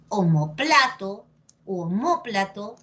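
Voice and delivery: omoPLAto, then oMÓplato; two accepted stresses. Shown as a demonstration. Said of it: "depende de ti cómo lo quieras decir".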